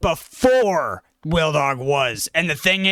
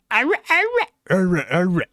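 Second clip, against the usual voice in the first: high yapping bark that drops; imitated dog bark; 5 semitones higher than usual. Acting out barking at the dinner table, imitated dog bark. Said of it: "can I hear your bark one more time?".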